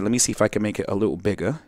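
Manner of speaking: put-on quick, offhand British accent. Teacher zooming in the screen, in a quick British accent. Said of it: "that was a British accent".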